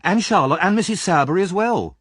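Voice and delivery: bully faking tears to the beadle; fake distress. A narrator's reading. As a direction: exaggerate it all. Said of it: "Noah cried".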